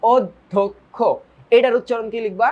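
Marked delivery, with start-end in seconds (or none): 0.0-1.0 অধ্যক্ষ split as "odh-dhok-kho"; syllable-by-syllable pronunciation. Shown as a demonstration. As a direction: sound out অধ্যক্ষ in separated syllables. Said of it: "এটার উচ্চারণ এইভাবে লিখতে হবে".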